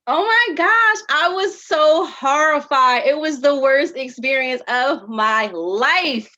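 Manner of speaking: high, loud, gushing over a horror story; thrilled tone that doesn't match the words; excitedly horrified. Shown as a demonstration. Teacher demoing mismatched cues, gushing loudly with glee. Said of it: "So if I say to you".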